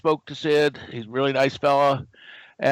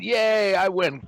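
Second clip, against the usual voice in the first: mock cheer; 6 semitones higher, slower than usual. Retold gloating at arcade high score.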